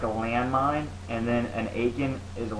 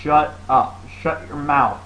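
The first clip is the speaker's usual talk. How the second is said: mildly raised, curt interruption; yelling shut up; 3 semitones higher, 5 dB louder, slower than usual. Retold or imitated. Player interrupts annoying gamer, mild retold yell. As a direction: cut in firmly, a bit louder. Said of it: "I start yelling".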